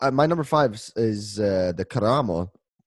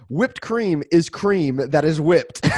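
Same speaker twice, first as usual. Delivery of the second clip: reading slowly; slower than usual. Retold or imitated. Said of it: "I typed in to Google".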